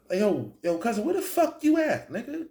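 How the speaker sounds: high, heated yelling into the phone; high-pitched irritated retelling; annoyed phone call. Retold or imitated. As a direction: demand answers from your cousin.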